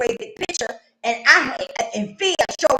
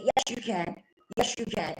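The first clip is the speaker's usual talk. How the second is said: reassuring counselor; 6 dB quieter than usual. Retold or imitated. Recovering counselor encouraging her crying client, reassuring. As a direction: say it softly and steadily, voice dropped.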